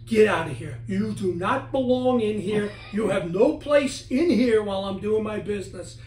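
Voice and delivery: loud, firm order to leave; retold yell. Speaker yelling at a ghost in his bathroom, loud. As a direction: yell at the tapping spirit. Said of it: "I yelled at it".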